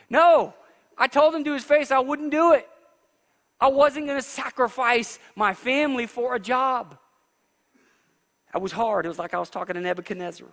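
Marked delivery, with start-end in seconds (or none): 0.1-6.4 emphatic retold refusal. Recalls refusing boss, emphatic.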